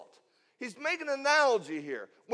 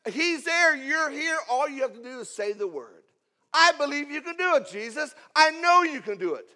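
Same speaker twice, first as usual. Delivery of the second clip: loud, higher, driving preacher's delivery; impassioned plea; 4 semitones higher, 6 dB louder than usual. Acted. Centurion urging Jesus to just speak, impassioned. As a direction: press the plea forcefully, word by word.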